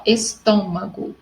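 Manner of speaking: estômago drawn out, stress on TÔ; slow teacher's demo of estômago, TÔ stressed; stressed third-last syllable. Shown as a demonstration. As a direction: say estômago slowly, leaning on "tô". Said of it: "toda proparoxítona é acentuada".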